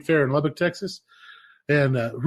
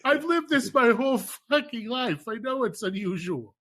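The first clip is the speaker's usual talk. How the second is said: higher, exasperated outburst that fades; 9 semitones higher than usual. Retold or imitated. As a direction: blurt it out, worn out by horses. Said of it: "I'm like".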